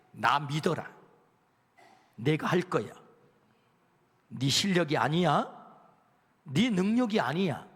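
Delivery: lightly voiced God reassuring Joshua. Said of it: "라고 하나님께서 집요하게 여호수아를 설득하는".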